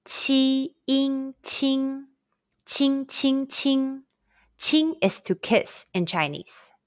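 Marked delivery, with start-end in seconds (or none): 0.0-4.9 "Qi, in, qing" each high and level; first tone qing. Shown as a demonstration. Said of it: "Repeat after me".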